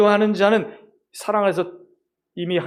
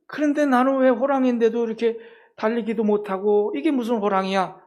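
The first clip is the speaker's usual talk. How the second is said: whiny cub; 4 semitones higher than usual. Acted. Cub tiger complaining again.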